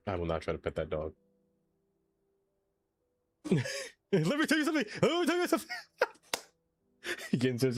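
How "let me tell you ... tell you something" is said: lecturing. Pretend. Mock lecturing the bear.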